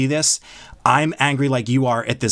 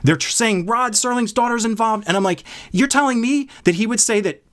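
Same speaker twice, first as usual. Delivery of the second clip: higher, indignant retelling of his outburst; worked up disbelief; 5 semitones higher than usual. Retold or imitated. Telling his co-host how incensed he was, in raised indignant disbelief. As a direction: fume in disbelief at the show. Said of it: "you see how worked up I am".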